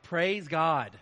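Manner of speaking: lightly voiced gleeful churchgoer; a hint of a gleeful congregant; mock smart-mouth churchgoer. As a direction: pretend you're thrilled for an excuse. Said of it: "don't walk out of here and go like".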